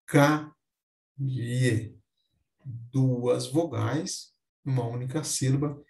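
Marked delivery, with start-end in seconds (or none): 0.1-1.9 "caie" split in two slow parts, "ca... ie"; ditongo crescente. Shown as a demonstration. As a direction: pause inside "caie" before the final glide. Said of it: "ou ainda". ("caie" pausado, separando "ca" de "ie")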